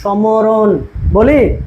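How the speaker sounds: সমরণ drawn out very slowly, syllable by syllable; slow pronunciation demo. Shown as a demonstration. Teacher showing students how স্মরণ really sounds, slow drawn-out demo. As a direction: spell out সমরণ slowly so the silent ম shows. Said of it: "যখন আমরা উচ্চারণ করি".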